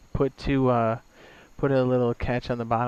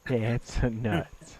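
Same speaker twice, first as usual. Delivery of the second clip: laughing. Real, not acted. Echoes quote while laughing.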